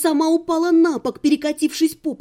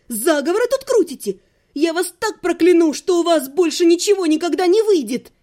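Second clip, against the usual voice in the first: higher, heated tirade; indignant outburst; 4 semitones higher, 3 dB louder than usual. Acted. Heroine threatening to curse her killers, indignant tirade. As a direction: rail at them, pitch lifted.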